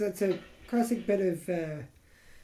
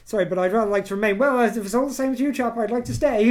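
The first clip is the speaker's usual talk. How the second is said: raised, louder mock-polite British voice; polite British protester; 4 semitones higher, 5 dB louder than usual. Mocking polite British Brexit protest. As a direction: apologise while insisting. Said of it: "'cause we're so British".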